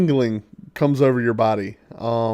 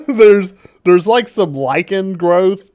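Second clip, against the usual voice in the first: laughing; 4 semitones higher, 3 dB louder, slower than usual. Real, not acted. GM laughing while describing grime.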